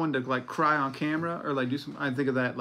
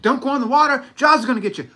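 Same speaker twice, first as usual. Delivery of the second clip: mock beach taunt; 9 semitones higher, 11 dB louder, faster than usual. Teasing the swimmers about Jaws, loud mock taunt. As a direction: taunt them about the shark.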